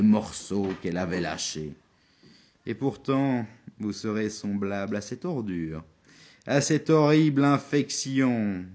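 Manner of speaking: grand recital of a poem; declaiming poetry. Acted. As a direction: declaim it like a stage actor. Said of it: "je suis obligé d'un peu le déclamer".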